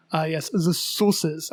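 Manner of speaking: slow, lightly put-on French accent; mimicked French accent. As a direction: savour it like a French cook, slowly. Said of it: "certain words that I follow along that he says".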